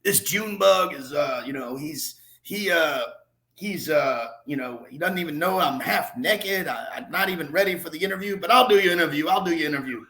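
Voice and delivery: imitated Southern accent; lightly put-on Southern voice; Lee Smith. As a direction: play the half-dressed Southern ballplayer grudgingly agreeing. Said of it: "in his Southern accent".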